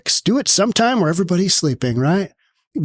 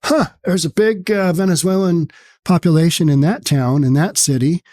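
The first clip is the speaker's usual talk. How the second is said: mock naive surprise. Commentator mocking people who act surprised at gang news, in a sarcastic fake-innocent voice. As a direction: play dumb and sarcastic, as if it's a total shock. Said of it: "you're gonna be like".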